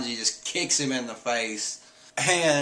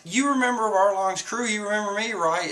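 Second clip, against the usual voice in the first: high-pitched mock coaxing voice; 9 semitones higher than usual. Nami asking the sea beast to remember her, high and coaxing. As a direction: raise the pitch, prodding for recognition.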